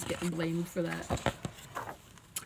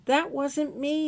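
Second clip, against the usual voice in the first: higher, louder, slow denial; child protesting; 6 semitones higher, 6 dB louder, slower than usual. Acted. Child answering mom's scolding, protesting. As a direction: plead your innocence.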